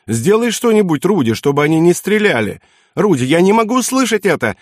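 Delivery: high-pitched frantic pleading; hysterical shrieking. A narrator's reading. Wife begging her husband to stop the gunfire, hysterical shriek. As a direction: beg in panic, voice jumping up. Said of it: "истерично взвизгнула она".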